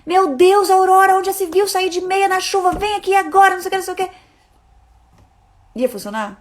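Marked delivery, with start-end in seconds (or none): 0.1-4.1 higher, louder exasperated scolding; angry scolding. Retold or imitated. Mother scolding toddler for going out in socks, loud and angry. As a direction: tell her off sharply and loud. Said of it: "meu ímpeto era".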